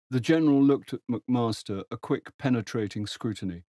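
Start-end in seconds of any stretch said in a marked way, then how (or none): none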